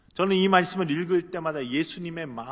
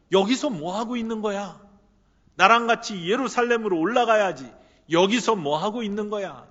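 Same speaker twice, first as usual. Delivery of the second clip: higher, louder, pressing challenge; insistent raised Jesus; 4 semitones higher, 7 dB louder than usual. Acted. Jesus pressing Peter to rise and go to Jerusalem, raised voice. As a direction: demand an answer, pushing him up. Preacher voicing Jesus, urging.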